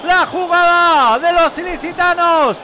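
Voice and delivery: rapid repeated goal cry; goal commentary shout. Real, not acted. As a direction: chant the goal, then call the score. Goal call on radio.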